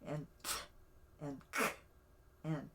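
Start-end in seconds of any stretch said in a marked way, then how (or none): 0.4-0.5 popped ejective "t"; isolated popping "t" sound. Shown as a demonstration. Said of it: "the adjectives are like". 1.5-1.7 popped ejective "k"; isolated popping "k" sound. Shown as a demonstration. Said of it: "the adjectives are like".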